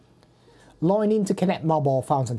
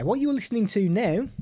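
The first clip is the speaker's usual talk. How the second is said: female voice; 6 semitones higher than usual. Shown as a demonstration. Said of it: "which is the female voice".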